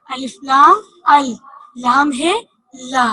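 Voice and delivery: each letter drawn out for the class; teacher slowing down the spelling; slow, spelled out. Shown as a demonstration. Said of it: "लाम को हमने दो दफा पढ़ा".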